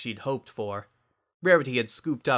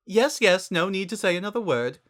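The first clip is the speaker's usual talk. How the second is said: high, theatrical and refined, louder; Rarity voice; 9 semitones higher, 4 dB louder than usual. A narrator's reading. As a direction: gush it out grandly. Rarity character voice.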